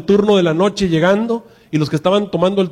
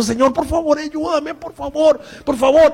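much higher, begging voice breaking into a plea; tearful pleading prayer; 9 semitones higher than usual. Acted. Pastor voices a believer praying through the night, pleading. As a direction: cry out to God as if in tears.

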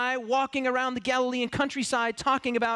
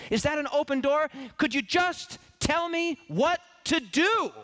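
higher, rising plea to God; a searching believer crying out; 4 semitones higher than usual. Acted. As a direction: beg God for a clear sign. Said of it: "have cried out for the very same thing".

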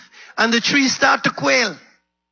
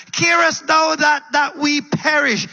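panicked plea; 6 semitones higher than usual. Acted. The disciples' plea in older translation.

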